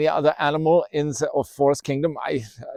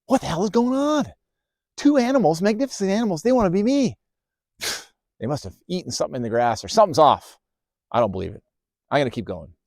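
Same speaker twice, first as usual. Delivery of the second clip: astonished ant; 3 semitones higher, 3 dB louder, faster than usual. Acted. Ant's astonished musing.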